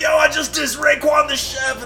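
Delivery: high mock-horrified confession; panicked disbelief. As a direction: squeak it out in embarrassed shock. Retells his panic backstage.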